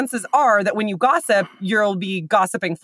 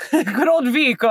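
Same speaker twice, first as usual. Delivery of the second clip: put-on Italian accent; 5 semitones higher than usual. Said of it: "You cannot say that and not say it in an Italian accent".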